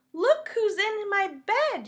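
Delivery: high, loud startled exclamation; startled cry. A narrator's reading. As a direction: cry out in shock at the find. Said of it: "he cried".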